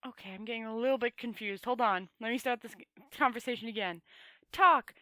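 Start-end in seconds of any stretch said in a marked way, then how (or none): 4.5-4.9 loud, high barked order; shout. A narrator's reading. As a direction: snap the word out at him. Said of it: "shouted Rincewind".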